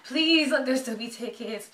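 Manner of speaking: slow, stretched-out plea; beg, drawing out the please; begging. Real, not acted. Fan next in line for tickets, slowly and openly begging.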